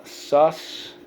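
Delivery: "suspicious" slowly split into sus, pi, cious; syllable by syllable. Shown as a demonstration. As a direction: sound out "suspicious" with long gaps between syllables. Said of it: "So let's go".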